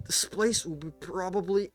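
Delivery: lightly voiced wounded leader, hammed-up grandeur; a dying boss giving his last speech, mock solemn; dying villain's farewell. GM voices dying Josh Joestar.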